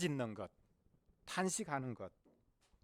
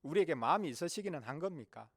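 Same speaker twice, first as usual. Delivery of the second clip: complaining; 2 semitones higher than usual. Acted. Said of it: "불평을 해댔습니다".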